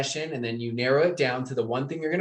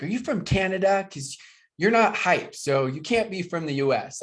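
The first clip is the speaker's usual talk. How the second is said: imitating Europeans; 6 semitones higher than usual. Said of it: "they always ask me, they're like".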